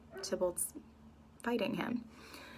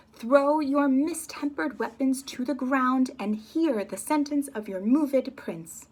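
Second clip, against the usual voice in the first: loud, high, slow royal command; slow, loud, high princely rebuke; screaming prince; 5 semitones higher, 6 dB louder than usual. Acted. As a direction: roar to halt the brawl. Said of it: "he's screaming at them now".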